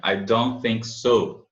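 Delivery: I don't think so, very slow; slow model. Shown as a demonstration. Teacher modelling the answer slowly for students. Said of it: "a expressão".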